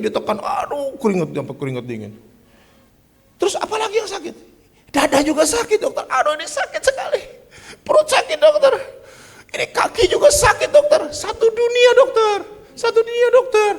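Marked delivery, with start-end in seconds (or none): 3.4-4.3 high questioning doctor voice; doctor asking. Retold or imitated. Doctor asks patient. 4.9-13.7 very high, pained complaining voice; whining patient. Retold or imitated. Pak Cek lists pains.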